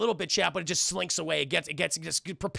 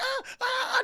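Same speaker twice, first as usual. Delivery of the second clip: mock scream. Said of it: "She's fucking screaming".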